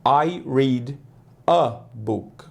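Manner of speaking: "a" said as a short "a", slowly; slow model "I read a book"; careful English. Shown as a demonstration. Teacher modeling an English sentence for students. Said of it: "a gente fala no inglês".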